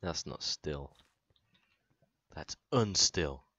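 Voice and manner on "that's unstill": slow loud deadpan; drawn-out disapproval; mock indignant.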